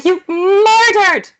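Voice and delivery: slow, loud Scottish accusation; hammed-up Scottish cry of murder; Scottish accent. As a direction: stretch it out in a Scottish burr. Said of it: "I say".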